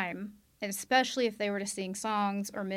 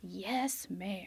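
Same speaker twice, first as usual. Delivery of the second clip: soft whispered yes ma'am; whispered affirmation; 6 dB quieter than usual. Real, not acted. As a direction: breathe it out in awe. Emphatic reverent aside.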